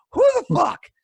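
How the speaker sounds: high, loud laugh into the words; real incredulous laugh mid-rant; laughing disbelief. Real, not acted. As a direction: laugh out the question in angry amazement. Ranting fan laughs in disbelief.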